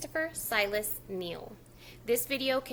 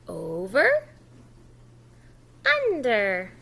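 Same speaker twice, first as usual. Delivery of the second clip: louder model words "Over", "under"; modelled words; 8 dB louder, much slower than usual. Shown as a demonstration. Teacher modelling the words louder for the child. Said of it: "You try".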